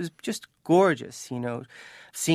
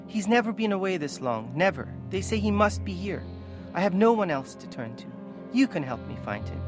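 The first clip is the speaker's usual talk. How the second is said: desperate mother; 5 semitones higher than usual. Acted. Mother begging guard to find her son, desperate. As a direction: plead high, then come down at the end.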